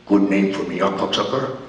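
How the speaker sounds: deep, low growling tough guy; low mocking growl; Mad Dog impression. Mad Dog voiced in story.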